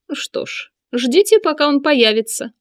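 hushed then high taunt; sneering taunt, rising high; eunuch voice. A narrator's reading. Sinan taunts.

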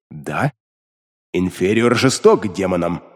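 lightly voiced demon, cold; low demon voice. A narrator's reading. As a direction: speak as the demon in his head. Demon Beliar answers.

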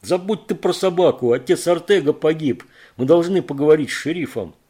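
high, loud pleading yell; loud and urgent; urgent shout. Acted. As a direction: make him listen, shouting. Rick shouts at Кейт.

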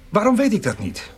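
hushed worried whisper; secretive whisper. Acted. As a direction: whisper so nobody hears. Whispering about the notary.

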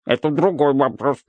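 bubbling barrel voice; gurgling. Acted. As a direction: gurgle each phrase out. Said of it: "булькает бочка".

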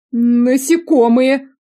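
high, loud, slow dread; fearful. A narrator's reading. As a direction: drag out the word in horror. Prisoner fearful. (высокий медленный испуг)

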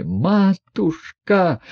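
long, drawn-out high wail; wailing cry. A narrator's reading. Lebedev wailing at the burning money, long slow wail. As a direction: howl it out in dismay at the fire. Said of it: "всё ещё вопил Лебедев".

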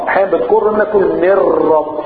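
normal talking voice

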